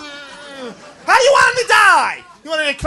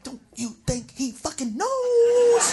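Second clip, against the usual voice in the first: quiet, slow disbelieving retort; incredulous retort; 7 dB quieter, slower than usual. Retold or imitated. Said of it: "I'm like".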